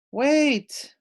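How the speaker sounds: high, loud call; loud high "Wait!". Acted. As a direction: shout after a friend running off. Maddie calls after running friend.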